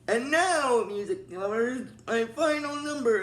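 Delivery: lightly voiced showy villain, swooping up on key words; Discordia. Imitating a villain announcing a final number, theatrical. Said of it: "Discordia's like".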